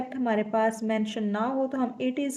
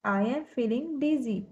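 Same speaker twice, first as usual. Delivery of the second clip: slow dictation; much slower than usual. Shown as a demonstration. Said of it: "हम बोलेंगे".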